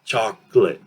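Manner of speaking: CHOCOLATE as CHOCK-lit; CHOCOLATE without the middle O; reduced vowels. Shown as a demonstration. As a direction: show two syllables in CHOCOLATE. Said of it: "very quick".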